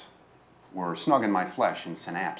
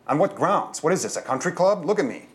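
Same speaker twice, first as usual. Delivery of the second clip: higher-pitched, indignant challenge; indignant bag lady; 8 semitones higher, 4 dB louder than usual. A narrator's reading. Bag lady refusing to leave the bakery, indignant. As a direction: protest with pitch jumping up.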